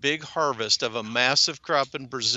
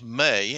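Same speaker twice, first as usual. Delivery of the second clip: may leaned on as a warning; the Fed decision may, not will, matter; stress on may. Real, not acted. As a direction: weigh the word may. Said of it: "and I emphasize the word may".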